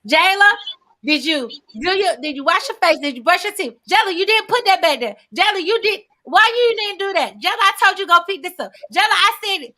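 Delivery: a hint of a nagging mother calling her child; lightly voiced scolding mom; mimicking nagging mom. Daughter mimics her mother nagging her by name. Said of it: "This is what she illustrated me".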